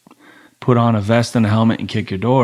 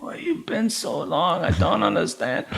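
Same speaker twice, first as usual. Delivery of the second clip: put-on Thai accent; 5 semitones higher, 8 dB quieter than usual. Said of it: "she's like".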